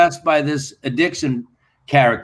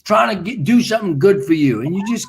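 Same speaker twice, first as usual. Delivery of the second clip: lightly voiced frustrated manager, rising higher; mock scolding manager; 6 semitones higher than usual. Manager on the phone scolding Anders for failing, mock exasperated.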